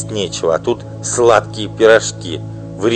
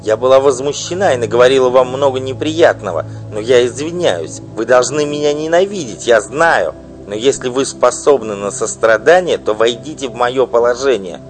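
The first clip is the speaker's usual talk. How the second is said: loud, high desperate begging; pleading wife; 8 semitones higher, 8 dB louder than usual. Acted. Wife imploring the singer, desperate loud pleading. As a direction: beg her with all her strength.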